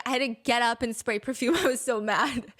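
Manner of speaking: reading through real laughter; can't keep it together, giggling through the words; laughter breaking into the quote; real laughing. Real, not acted. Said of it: "I'm laughing because Tom's response is crazy".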